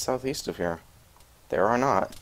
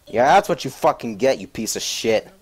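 loud, triumphant taunt; gloating yell; 3 semitones higher, 6 dB louder than usual. Real, not acted. Gloating at the helicopter.

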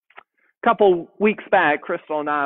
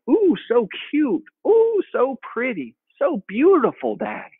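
put-on toddler voice; 8 semitones higher than usual. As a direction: coo at Daddy like a proud toddler.

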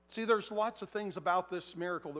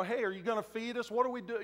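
complaining crowd member; 5 semitones higher, faster than usual. Acted. Grumbling crowd member voiced.

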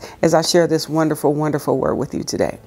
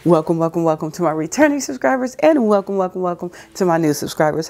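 booming sing song welcome; 2 semitones higher than usual. Real, not acted. Channel greeting to subscribers.

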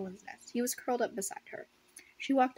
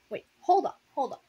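sudden louder wait, hold up; surprised interruption; 4 semitones higher, 6 dB louder than usual. Real, not acted. Reader catching a mistake, sudden and louder. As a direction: stop the reading in surprise. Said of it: "stops the reading".

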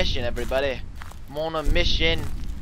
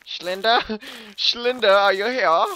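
put-on high German-accented call; mock German; 4 semitones higher than usual. Player calling to Slender in the game, mock German. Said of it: "Schlinder sounds German".

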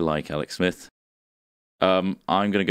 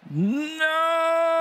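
pitched-up dramatic cry; high pitched no. Pretend. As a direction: squeak out a high no. Dramatic shout through sampler.

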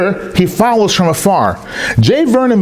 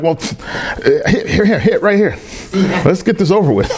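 laughing it off. Pretend. Mock-casual reply to a gunman.

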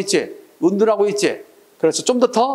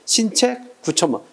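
신책, short pause, then 구천문 as one group; two-three reading rhythm; 3 semitones higher than usual. Shown as a demonstration. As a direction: read 신책 / 구천문 slowly in two-plus-three beats. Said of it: "오원 절구 같은 경우는 이".

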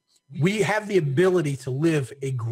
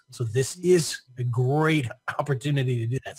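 choking up while talking. Real, not acted. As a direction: talk through a choke in the throat. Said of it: "Sorry, I'm choking to death here".

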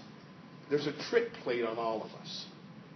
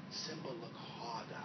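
gentle urging; 10 dB quieter than usual. Acted. Rafiki urging Simba gently.

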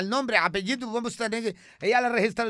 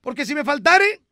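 much higher, louder, comic woman's voice; high put-on character voice; 8 semitones higher, 6 dB louder than usual. Comic character voice chatting with the host. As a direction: play it high and bright like a radio sketch character.

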